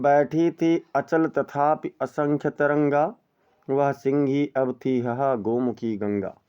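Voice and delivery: slow, measured verse reading; poem recitation. Shown as a demonstration. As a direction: recite it like classical poetry. (धीमा काव्य पाठ)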